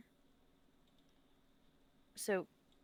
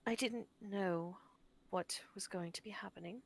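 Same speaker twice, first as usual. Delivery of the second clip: sincere apology. Acted. Tilda's heartfelt apology in character.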